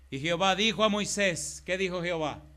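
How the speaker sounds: loud, drawn-out reading of God's complaint, very slow on "¿Hasta cuándo"; preaching scripture. Acted. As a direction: proclaim the verse with weight. Pastor reads God's words aloud. (lectura predicada, fuerte y muy lenta)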